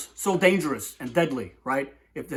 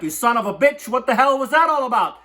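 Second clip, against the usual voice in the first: angry frog; 7 semitones higher, 4 dB louder than usual. Retold or imitated. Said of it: "the frog's like".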